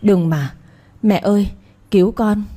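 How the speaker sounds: a hint of crying while struggling; sobbing plea. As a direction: sob out to mother, understated. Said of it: "khóc nức lên".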